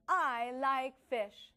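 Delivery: slow, excited reading of I like fish; with excitement. Shown as a demonstration. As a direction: read it like an exclamation, with excitement. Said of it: "read it with excitement".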